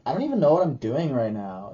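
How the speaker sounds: imitated weird enunciation, sentence left open; mock uptalk. Vlogger mimics her old way of talking, mock uptalk. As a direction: parody someone who never ends on a period. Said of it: "not ending it with a period".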